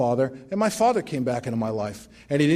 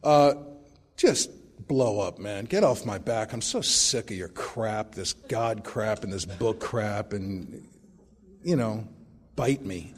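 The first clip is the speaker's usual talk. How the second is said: angry sponsee; 6 semitones lower, 5 dB quieter, slower than usual. Retold or imitated. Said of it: "called me up and he said".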